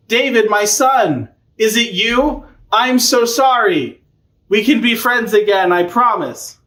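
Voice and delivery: high, drawn-out pleading; hammed-up slow apology, pitched high; mock remorseful king. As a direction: plead like a repentant father in a retold tale. Saul's acted apology to David.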